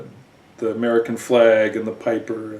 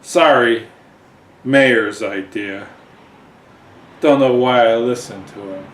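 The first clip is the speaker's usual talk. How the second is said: put-on drunkenly; 6 dB louder than usual. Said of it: "drunkenly says".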